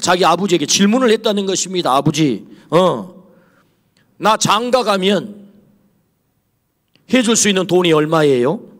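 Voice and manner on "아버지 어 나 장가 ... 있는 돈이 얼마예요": slow, grave, weighty, serious delivery. Preacher retells how a friend's son seriously asked his father a question, retelling a serious question. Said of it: "심각하게 물었다는 거예요".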